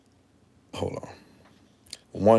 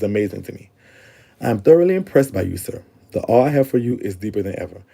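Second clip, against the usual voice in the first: reading a letter aloud. Acted. Reads her old letter aloud.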